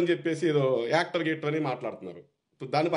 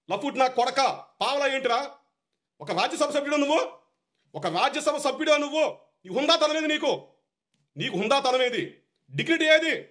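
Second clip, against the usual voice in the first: higher-pitched angry tirade, building; escalating outrage, peaking at the end; furious outburst; 6 semitones higher than usual. Real, not acted. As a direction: shout him down with contempt. Heated rant at rival MP.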